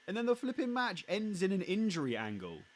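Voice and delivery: high, loud disbelief; exasperated outburst. Real, not acted. Podcaster ranting to co-host about the match's ending, exasperated. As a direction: rant it out, pitched right up. Exasperated rant at the injury angle.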